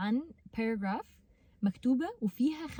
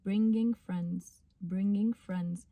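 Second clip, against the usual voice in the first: first slow take; 3 semitones lower, much slower than usual. Shown as a demonstration. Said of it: "أول مرة هتقوليها بطيئة".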